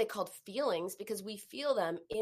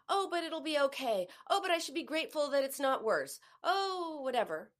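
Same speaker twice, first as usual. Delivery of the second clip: dismissive; 6 semitones higher than usual. Retold or imitated. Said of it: "which are all rather dismissive".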